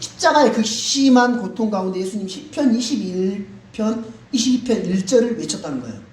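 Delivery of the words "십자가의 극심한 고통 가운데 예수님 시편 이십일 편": ordinary delivery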